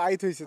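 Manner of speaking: আইত হইছে with the r dropped, Rangpuri style; Rangpur dialect phrase. Shown as a demonstration. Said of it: "আমরা কিন্তু বলি যে". (রংপুরি টানে আইত হইছে)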